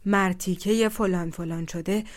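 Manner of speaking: angry. Acted. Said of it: "ترش رو و عبوس".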